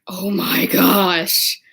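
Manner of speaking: slow, drawn-out swoon over kittens; imitated gushing. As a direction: gush it slowly, hammed-up. Sisters gushing over cute kittens.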